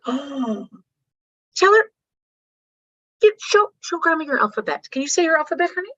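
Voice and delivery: high, eager coaxing; proud mom. Retold or imitated. Proud mother urging her daughter to recite for grandma. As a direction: gush at the kid to show off.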